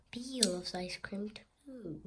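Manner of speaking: secretive whispered aside; hushed aside to the listeners. Acted.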